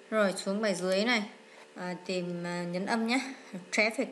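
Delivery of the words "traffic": Traffic stressed on the first syllable, TRAF-fic. Shown as a demonstration. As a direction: put the weight on TRAF in Traffic. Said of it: "nhấn âm một".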